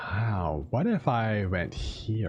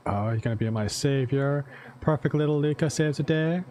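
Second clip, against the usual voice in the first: sarcastic; 4 semitones higher than usual. Acted. Bitter mockery of Luca.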